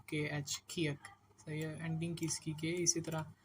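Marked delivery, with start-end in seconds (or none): 0.7-1.1 "खियक" begun with a breath-released K; aspirated KH. Shown as a demonstration. Teacher giving learners the letter's name, "खियक" with aspirated KH. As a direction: say "खियक" with KH as its first sound. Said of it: "केएच कर लें इसको".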